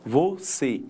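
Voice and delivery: "você" with a closed final "ê"; closed vowel sound. Shown as a demonstration. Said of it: "som fechado".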